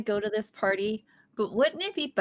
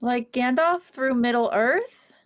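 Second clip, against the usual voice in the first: eager, drawn-out question; hopeful geeky excitement; slow and excited; 5 dB louder, slower than usual. Acted. Excited Lord of the Rings reference.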